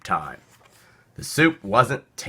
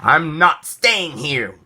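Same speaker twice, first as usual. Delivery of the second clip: wailing; 4 semitones higher, 3 dB louder, slower than usual. Acted. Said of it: "wailed the duck".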